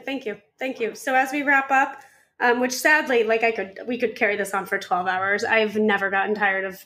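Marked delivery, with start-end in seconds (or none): 0.0-0.9 soft heartfelt thank you; softer sincere thanks. Real, not acted. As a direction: say it quietly, touched. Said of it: "That's the most beautiful thing".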